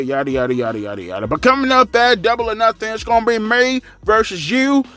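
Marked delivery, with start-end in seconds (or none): 1.3-4.8 slow, higher hammed-up challenge; mock slow wrestling promo; mock Willow threat.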